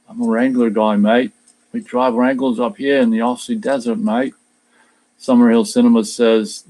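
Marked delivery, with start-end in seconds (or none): 0.1-4.4 put-on Aussie accent with broad vowels on "mate"; Australian accent. Shown as a demonstration. Streamer demonstrating Matt's Wrangler line, put-on Australian accent. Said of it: "I can say certain words with the Australian accent".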